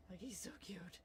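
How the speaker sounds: adoring whisper. Real, not acted. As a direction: whisper it, melting over the dog. Adoring the dog.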